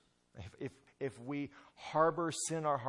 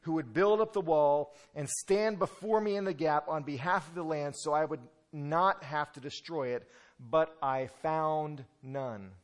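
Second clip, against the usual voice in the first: voice of God; 5 semitones higher, 9 dB louder than usual. Acted. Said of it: "and he says".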